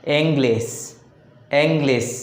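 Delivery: "English" with extra force on ENG; ENG-lish, first syllable stressed. Shown as a demonstration. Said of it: "first syllable".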